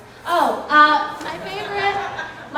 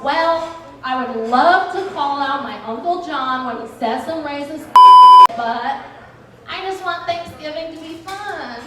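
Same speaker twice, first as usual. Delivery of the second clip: whiny relative; 9 dB louder than usual. Retold or imitated. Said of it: "the person that's like".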